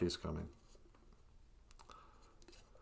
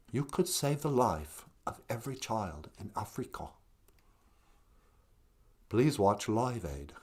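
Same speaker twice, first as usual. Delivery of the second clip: lightly voiced cool English star; quiet passive impression of a singer; 7 dB quieter than usual. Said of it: "impersonation of a singer".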